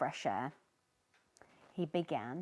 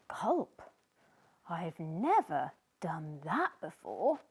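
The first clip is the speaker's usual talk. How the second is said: nervously; 3 semitones lower than usual. Acted. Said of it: "Sneezy said nervously".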